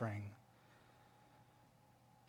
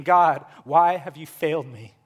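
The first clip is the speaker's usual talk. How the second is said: louder cry, short of a scream; acted scream; 3 semitones higher, 10 dB louder than usual. Jesus screaming to God on the cross, mildly acted. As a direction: cry out an accusing question. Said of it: "Jesus is screaming".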